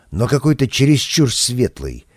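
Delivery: ordinary delivery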